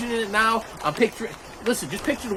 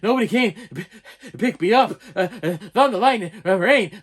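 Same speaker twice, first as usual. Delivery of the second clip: acted gasping between broken words; panicked, can't breathe. Five-year-old telling mother, acted breathless panic. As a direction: struggle to get words out, mock panic. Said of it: "I could not breathe".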